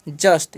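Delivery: जस्ट said slowly as one syllable, short "uh" vowel; pronunciation of जस्ट. Shown as a demonstration. Teacher shows students how JUST is read, slow model pronunciation of जस्ट. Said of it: "इसे हम क्या पढ़ते हैं".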